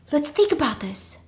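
acted nervous attempt at reason; trying to calm. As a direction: say it high, at normal speed. First try at calming the panic.

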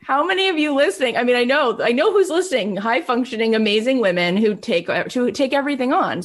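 rally the listening women; energetic shout-out to the audience; excited. Real, not acted. Enthusiastic address to listeners.

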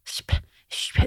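shp- hissed with a slushy lisp; lisped shp sound. Shown as a demonstration. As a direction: say shp- with a heavy lisp, unvoiced. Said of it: "when I say the word grasp".

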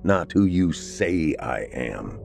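a hint of a gloomy husband sulking; brooding vampire husband. Samuel voiced in story.

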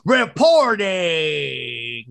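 drawn-out hype shout; dramatic announcer shout. Acted. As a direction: boom it like a promo. Host hypes a show segment.

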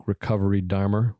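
"Dharma" said the Boston way with an r-ish tail, like Dharmer; Boston accent. Real, not acted. Host reads a book title in a Boston accent. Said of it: "that was the most Boston I've ever sounded".

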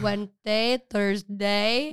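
drawn-out days in mimicked Filipino accent. Friend mimics mom listing days, Filipino accent. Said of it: "Molly's turning into a Filipino".

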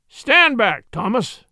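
high, loud command; shouted warning. A narrator's reading. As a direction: shout to hold him off. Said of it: "he shouted".

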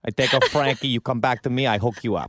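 a slightly deepened mobster put-on; hint of a low mafia heavy; Tony Meatballs. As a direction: lightly play an Italian-American mob boss. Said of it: "I have to go a little deeper".

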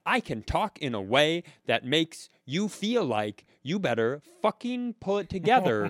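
condescending, pressed clerk voice; mock a scolding at ordinary volume, pitch lifted; yelling without volume. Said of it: "it's yelling without, uh, volume".

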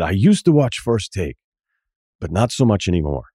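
a hint of a vampire; lightly voiced vampire guide. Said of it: "I made him a vampire".

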